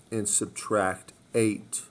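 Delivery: slowly stressing each word; slow, deliberate repeat. Shown as a demonstration. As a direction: spell it out slowly for students.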